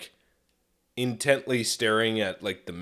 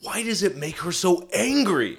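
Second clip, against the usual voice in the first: retold bafflement; 6 semitones higher than usual. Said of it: "I've been like".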